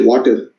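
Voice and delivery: "water" with the R at the end pronounced; Indian-accented "water" with a clear final R; stressed final R. Shown as a demonstration. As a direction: sound out the last R in "water". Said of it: "we stress on the R part".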